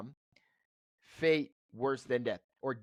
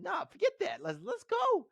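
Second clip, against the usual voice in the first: mock tough guy. Retold defiance in high voice.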